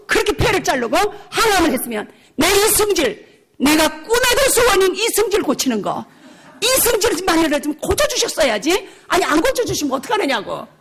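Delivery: half-laughing, hammed-up protest; retold shouting at God. Preacher acting out her angry demand to God, laughing mock anger. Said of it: "소리를 지르면서".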